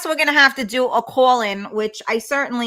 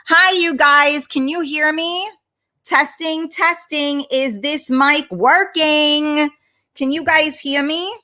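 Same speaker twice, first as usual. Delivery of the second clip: higher-pitched call to check the mic; 4 semitones higher than usual. Real, not acted. Host checking the stream's sound with viewers, higher-pitched mic check. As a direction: call out to see if anyone can hear.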